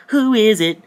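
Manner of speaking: high loud challenge; mock demanding question. Confronting the alien man, high loud challenge. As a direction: call it out sharply. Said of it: "Look at him like".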